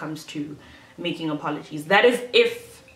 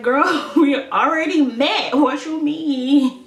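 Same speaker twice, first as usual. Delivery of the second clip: mock incredulous guy; 8 semitones higher, 5 dB louder, much slower than usual. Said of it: "And he was like".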